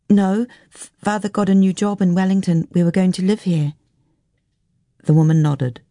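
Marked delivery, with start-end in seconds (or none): 0.1-3.8 higher, lightly voiced child, faltering at first; hesitant young girl. Girl explaining the family's move to a stranger, hesitant. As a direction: explain timidly as a polite girl.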